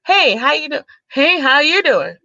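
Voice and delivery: lightly imitating a smooth flirt; mock smooth greeting. Imitating the guy from her inbox, lightly smooth. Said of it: "He like".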